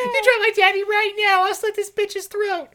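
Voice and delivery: very high screaming threat; frantic shouting hostage taker. Acted. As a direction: scream it out of control.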